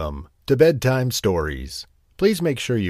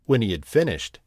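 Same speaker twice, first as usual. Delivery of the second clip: put-on gentle storyteller reading to children; cosy read-aloud storybook voice; bedtime story narration. A narrator's reading.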